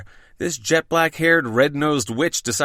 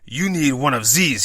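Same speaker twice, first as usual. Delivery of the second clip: put-on French accent. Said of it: "I know I do a terrible French accent".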